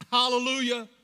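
high, ringing loud shout; crying out. Acted. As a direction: shout praise with full force. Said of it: "they cried out".

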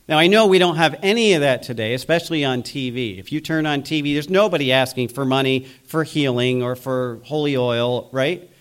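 dry mock-sincere denial; sarcastic. Real, not acted. Preacher mocking money-seeking TV healers, sarcastic. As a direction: say it as if innocently believing it, with irony. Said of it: "And I'm being sarcastic".

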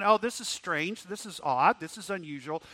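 평온한 척 심드렁하게; mock calm shrug. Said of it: "just calmly going".

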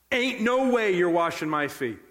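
firm, punched refusal; emphatic refusal. Acted. Peter refusing Jesus, emphatic no. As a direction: flatly rule it out with force. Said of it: "It is the strongest emphatic no available".

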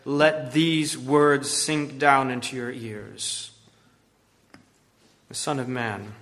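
slow, weighty, frustrated warning; sinless frustration. Acted. Jesus warning his unlistening disciples, slow and frustrated. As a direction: press each word in slowly, grieved and stern. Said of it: "Sinless zeal and anger and frustration".

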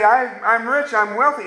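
mocking a self-satisfied believer; smug self-righteous man. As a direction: boast like someone who thinks he's fine. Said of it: "You say".

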